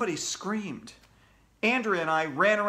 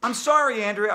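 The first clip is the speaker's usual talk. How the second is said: loud, raised newsflash voice; urgent news interruption; 6 semitones higher, 7 dB louder than usual. Acted. AJ interrupting the morning announcements, urgent. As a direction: cut in like a newsreader.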